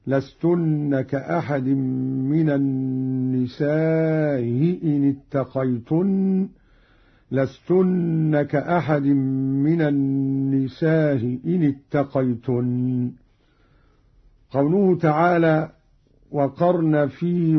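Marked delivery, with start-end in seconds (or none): 0.1-6.5 "النساء إن" with a long drawn aa, hamza softened towards hi; softened hamza, prolonged. Shown as a demonstration. Teacher showing Qalun's madd, "النساء" stretched with softened hamza. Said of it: "بتسهيل الهمزة الأولى مع المد". 7.3-13.1 "النساء إن" with shorter aa, hamza softened towards hi; softened hamza, shortened. Shown as a demonstration. Teacher showing Qalun's qasr, "النساء" shorter with softened hamza. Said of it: "مع المد والقصر هكذا".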